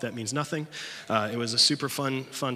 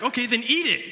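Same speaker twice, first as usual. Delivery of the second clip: laughing dare; 12 semitones higher, 7 dB louder than usual. Retold or imitated. Leader daring scout.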